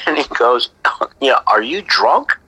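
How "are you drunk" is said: giggling question. Retold or imitated. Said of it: "my dad kinda started giggling".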